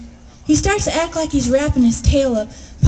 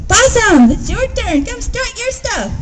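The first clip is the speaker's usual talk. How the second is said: calling out; 8 semitones higher than usual. A narrator's reading. Announcer calls Possum to stage.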